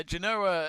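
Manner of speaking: Genoa with a "Jen-oh-a" start, northern style. Real, not acted. Host reading results in his northern Genoa. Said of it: "Northern, Muppets accent".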